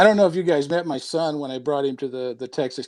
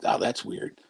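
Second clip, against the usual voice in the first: whisper; 8 dB quieter, slower than usual. Retold or imitated. Spooked girl retells odd voice.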